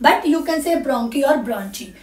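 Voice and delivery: bronchi said as "bronki", then ब्रोंची said with a "ch" sound; slow, careful demonstration of both readings; both pronunciations. Shown as a demonstration. Teacher to students showing both ways of saying bronchi, slowly and carefully. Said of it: "बहुत लोग इसको ब्रोंची भी पढ़ते हैं".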